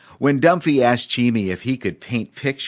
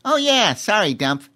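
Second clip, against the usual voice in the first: high laughing apology; sheepish chimp; 13 semitones higher, 4 dB louder than usual. A narrator's reading. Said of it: "Cheemy laughed".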